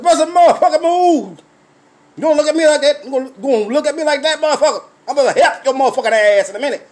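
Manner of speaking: retold street threat, played up; mock threat. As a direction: dare him to step up.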